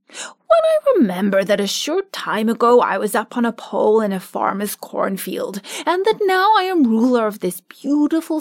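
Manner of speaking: lightly voiced cheerful scarecrow; a hint of a pleased straw ruler. Scarecrow as new ruler addresses his friends, pleased.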